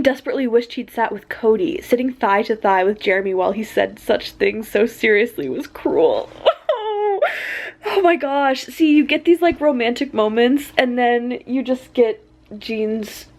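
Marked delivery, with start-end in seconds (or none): 6.3-7.8 pained high wail. Real, not acted. Pained reaction to sad line.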